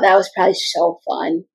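a quick breathy aside under the voice; whispering. Real, not acted. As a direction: drop to a whisper for the remark. Aside about Bub City.

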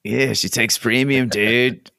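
slow laid-back dude drawl; Snake from The Simpsons. Retold or imitated. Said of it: "Snake from The Simpsons".

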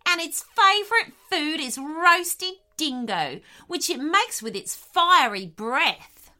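high, loud, boastful threat; bluffing wombat. Acted. Continued the wombat.

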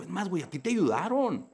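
telling God off. Retold or imitated. Speaker complaining to God that others get help, indignant rant. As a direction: demand answers from God, fed up. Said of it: "le digo".

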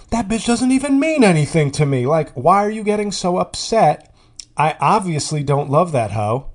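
loud, high, mock-outraged retort; indignant cheater. Neighbor defends his cheating to his partner, mock indignant. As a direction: imitate a cheater offended at being accused. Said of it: "confess cheating with indignity".

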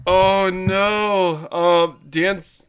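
distorted mic sound; warped slowed-down mic voice; voice changer. Real, not acted. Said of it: "Talk about Dan Sorensen without fixing anything".

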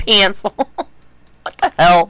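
teasing imitation of his accent, PENCIL as "pan-sil"; mock his accent on PENCIL with a broad "a"; mimicked accent. Co-host teasing him about his accent, mimicked accent. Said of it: "doing better with the accent".

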